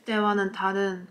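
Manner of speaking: muffled behind fingers; speaking through hand; hand over mouth. Real, not acted. Seen 0: Hand covers mouth 1.5-2.1, fingers at lips 2.3, then lowered.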